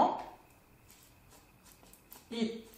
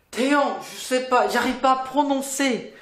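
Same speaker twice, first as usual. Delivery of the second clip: higher-pitched student complaint; puzzled student; 6 semitones higher, 3 dB louder than usual. Acted. Student telling teacher they can't pronounce it, puzzled complaint. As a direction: protest like a stuck learner.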